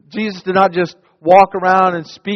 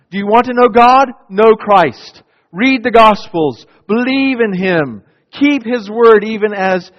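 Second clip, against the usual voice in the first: loud, high, urgent appeal; fervent preaching cry; preaching exhortation; 4 semitones higher, 4 dB louder than usual. Real, not acted. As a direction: press the call home to the listeners.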